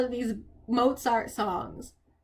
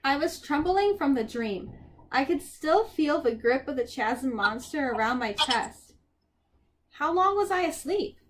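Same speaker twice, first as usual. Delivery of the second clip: measured audiobook-style reading; story narration. A narrator's reading. Reader tells a dream to listeners, story narration.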